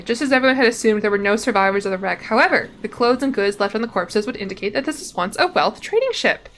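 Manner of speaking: measured reading of a sea tale; story narration. Acted. Streamer reading the sea event to viewers, story narration. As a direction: narrate the voyage like a logbook. Reads game text aloud.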